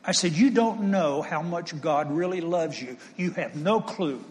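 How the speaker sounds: slow, emphatic, each word landed hard; punched out. Retold or imitated. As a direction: punch YOU DON'T KNOW and NO CLUE slowly and firmly. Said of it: "I punched it pretty loud".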